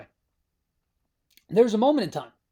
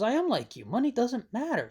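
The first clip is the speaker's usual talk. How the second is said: slightly higher, a hint of a pleading Benji; Benji's voice, lightly voiced; 6 semitones higher than usual. Retelling how Benji brushes off money, lightly mimicked. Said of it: "He goes".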